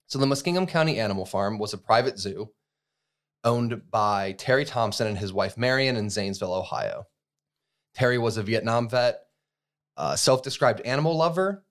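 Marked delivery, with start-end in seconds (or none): 0.3-7.1 short of breath, gasping between words; reading while still winded. Real, not acted. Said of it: "You sound like you can't breathe". 7.9-11.6 winded, breathy phrases; out of breath. Real, not acted. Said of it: "You sound like you can't breathe".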